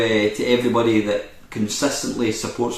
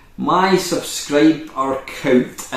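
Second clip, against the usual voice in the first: very slow, oddly drawn-out delivery; 5 semitones higher than usual. Updating subscribers on the subscriber count, saying it very slowly. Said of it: "I don't know why I said that so slow".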